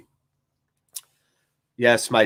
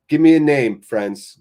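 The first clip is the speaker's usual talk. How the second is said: calls out loud for a name; rally the chat with a loud call; shouting to chat for a name; 5 dB louder than usual. Real, not acted. Calling on chat for names.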